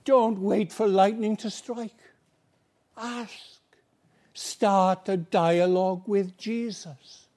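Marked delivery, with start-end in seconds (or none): 3.0-3.6 a sudden breathy whisper of one word. Acted. Preacher urging the congregation to ask, whispered. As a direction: drop to a whisper to urge them.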